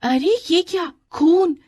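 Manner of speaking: high exclamation of discovery; startled schoolgirl cry; shocked surprise. Acted. Anju spots blood on skirt.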